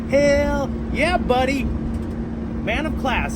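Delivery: high, drawn-out "hell yeah"; excited cheer. Real, not acted. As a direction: cheer the truck on, then slow "man of class". Cheering at a passing truck.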